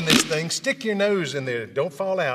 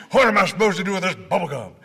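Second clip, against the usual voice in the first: exasperated doctor; 2 semitones higher, 4 dB louder, faster than usual. Retold or imitated. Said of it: "doctor asks".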